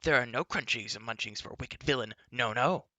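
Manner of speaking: odd, whiny little creature scolding; indignant beastlike babble; a small furry companion, huffy and defiant. A narrator's reading. Gurgi's creature voice.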